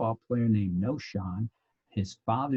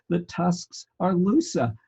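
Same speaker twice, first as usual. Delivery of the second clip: higher, louder, slowed punchline; blurted punchline; 8 semitones higher, 4 dB louder, slower than usual. Retold or imitated. Teacher acting out blurting the punchline at the bar, loud. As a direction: blurt it out, proud of the joke. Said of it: "I blurt out the response line".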